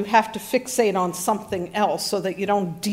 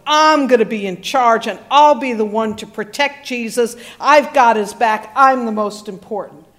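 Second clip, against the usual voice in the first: boastful Peter; 2 semitones lower than usual. Retold or imitated. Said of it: "I could just hear it".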